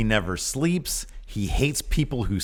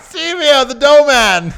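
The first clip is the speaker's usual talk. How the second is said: much higher, loud, laughing showman call; 11 dB louder, slower than usual. Pretend. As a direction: crack up mid-pitch. Barker bit, laughing.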